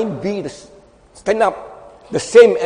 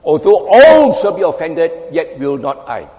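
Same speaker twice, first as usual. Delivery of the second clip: emphatic bragging; 6 dB louder than usual. Acted. Preacher voicing Peter's boast to the congregation, emphatic. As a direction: brag it with heavy emphasis. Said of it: "He bragged emphatic-, emphatically".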